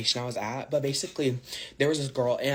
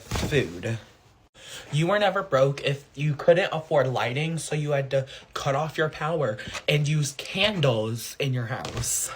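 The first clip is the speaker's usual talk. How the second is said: louder, rhythmic trend-video read, each line hitting "never broke"; punchy list read; 4 dB louder than usual. Acted. To viewers, a loud rhythmic list read.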